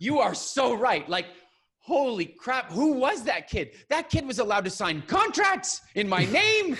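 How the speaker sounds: high, slow, drawn-out amazed cry; giddy disbelief. Retold or imitated. Calling his mom on his thirtieth birthday, high amazed squeal.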